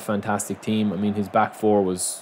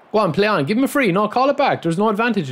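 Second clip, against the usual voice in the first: higher, urgent calls at the ref; shouting at referee; 9 semitones higher than usual. Real, not acted. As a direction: appeal to the referee, raised voice.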